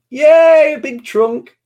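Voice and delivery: high, loud parental cheer. Real, not acted. Cheering the child's elephant act.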